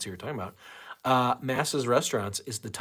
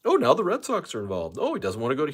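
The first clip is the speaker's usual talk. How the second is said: Mo voice; 4 semitones higher, 3 dB louder, faster than usual. Retold or imitated. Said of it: "I'm doing my Mo voice".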